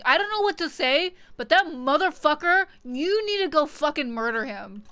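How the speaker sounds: loud, high mock clerk urging a murder; hotel clerk voice. Streamer voicing a hotel clerk, loud and high. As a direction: ham up the desk clerk's blunt request.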